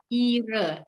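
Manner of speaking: "Ire" with a long I and unspoken H; silent H. Shown as a demonstration. Teacher explaining spelling, silent H in "Ire". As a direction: lengthen the I in "Ire", skip the H. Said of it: "hanya itu nggak dibaca".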